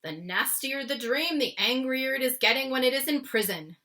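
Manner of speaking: a hint of the giant, calmly explaining; lightly voiced BFG. The BFG explains to Sophie, lightly voiced. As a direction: wise old giant voice. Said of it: "the B F G said".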